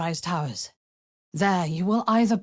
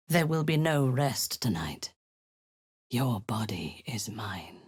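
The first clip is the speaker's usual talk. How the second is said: possessive whisper; 5 semitones lower than usual. Acted. Drow commander telling her servant she owns him, whispered. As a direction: whisper it as ownership.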